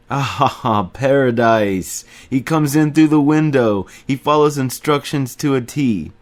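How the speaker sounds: loud, high, booming laughing greeting; laughing Remy. A narrator's reading. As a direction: roar it out like a delighted big Frenchman. Remy's great laugh voiced.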